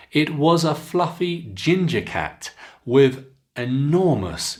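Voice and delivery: clear, expressive teacher read-aloud; careful storybook reading for students; model reading aloud. Shown as a demonstration. Teacher reads model passage aloud.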